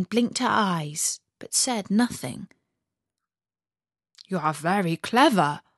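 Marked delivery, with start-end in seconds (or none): 4.3-5.6 reindeer voice. Acted. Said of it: "said the reindeer".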